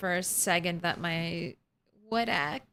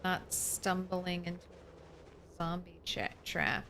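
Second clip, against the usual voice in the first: whisper shouting; 11 dB quieter than usual. Real, not acted. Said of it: "whisper shouting at the zombies".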